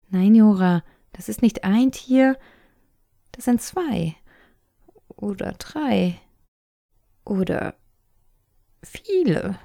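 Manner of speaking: high, loud, urgent "das ist nicht ein Tier"; insistent and scared. A narrator's reading. Little sister insists to her brother there are many animals, urgent and high. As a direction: hammer it home over his correction.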